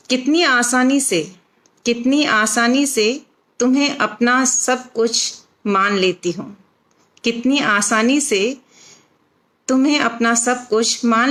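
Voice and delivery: measured, phrased verse reading with short pauses; expressive Hindi poem recitation; poetry recital. Acted. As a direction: recite it line by line, lifting each opening and letting the endings drop. Recites her own poem.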